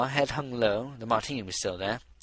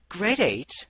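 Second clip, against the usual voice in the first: resigned; 7 semitones higher, 3 dB louder than usual. A narrator's reading. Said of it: "she said resignedly".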